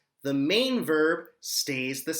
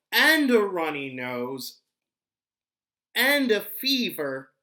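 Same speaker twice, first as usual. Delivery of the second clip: slow, weak sick voice with coughs; sick child; 6 semitones higher, 5 dB louder than usual. Acted. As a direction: sound like you have a fever. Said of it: "I feel very cold".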